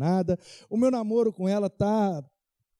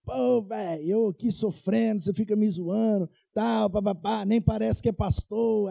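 mock-indignant complaint, slightly raised pitch; miffed retort; 2 semitones higher than usual. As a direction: imitate an annoyed friend protesting. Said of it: "ficou bravo".

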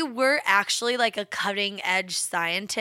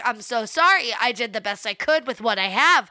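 imitating a contrite apology, emphatic; apologetic. Acting out the movie's basement surgeon for a co-host, apologetic. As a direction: plead that you tried, playing a sorry surgeon. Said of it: "he's apologetic. Okay, that guy is apologetic".

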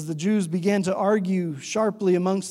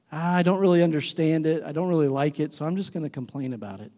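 grumbling; 2 semitones lower than usual. Acted. Churchgoer slipping into a negative habit, mild grumbling. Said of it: "And we grumble".

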